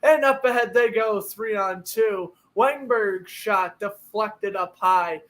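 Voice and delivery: live hockey play-by-play. Acted. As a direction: call the game like a broadcaster. Plays a hockey game call.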